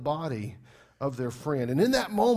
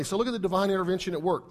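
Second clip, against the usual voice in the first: usual speaking voice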